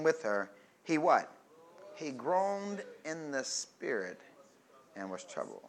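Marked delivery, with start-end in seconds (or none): 1.9-5.6 hushed groan. Acted. Preacher hushing the church as Jesus groans. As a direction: let it sink to a hushed low groan.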